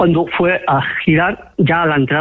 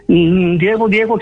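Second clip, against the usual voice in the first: retold scared calling; 2 semitones higher, slower than usual. Frightened cousins call out to Diego, retold scared calling. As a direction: imitate a frightened call for attention, rising in pitch. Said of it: "se pusieron a gritar, asustadas".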